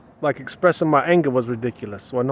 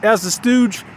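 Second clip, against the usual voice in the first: higher, louder begging to God; pleading prayer; 3 semitones higher, 4 dB louder than usual. Acted. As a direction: cry out to God for love, pleading. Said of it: "Am I saying".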